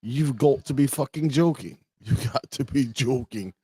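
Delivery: put-on British accent. Streamer reading British people meme, mock British accent. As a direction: put on British disbelief, laughing midway. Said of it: "British people be like".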